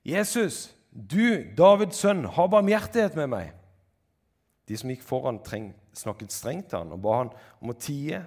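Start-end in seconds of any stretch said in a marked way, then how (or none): 0.1-3.5 high, loud cry for mercy; loud beggar's call. A narrator's reading. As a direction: shout to someone passing by, pleading. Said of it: "Da ropte han".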